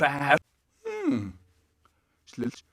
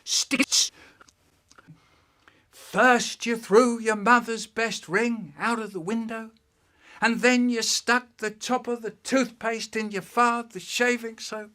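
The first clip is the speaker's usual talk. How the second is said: high-pitched dad listing the crimes; raised, deliberate parental telling-off; scolding dad; 8 semitones higher than usual. Acted. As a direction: lay out each offence like an exasperated father. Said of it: "He said".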